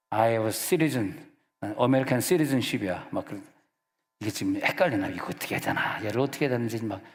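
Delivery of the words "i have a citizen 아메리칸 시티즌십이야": English. Retold or imitated. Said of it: "막 영어로 그냥".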